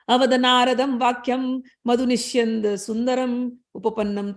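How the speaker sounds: steady, measured chanting of scripture; Sanskrit verse recitation. Acted. Teacher reading Sumedha's Sanskrit reply aloud, chanted. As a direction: intone the verse like a reading from the text.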